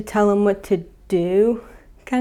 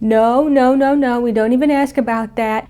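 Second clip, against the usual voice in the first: raised, louder mom shutting it down; emphatic refusal; 3 semitones higher, 4 dB louder than usual. Retold or imitated. Mom to curious son asking about boats, emphatic refusal. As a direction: cut off the question with firm, rising no's. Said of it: "the mom immediately is like".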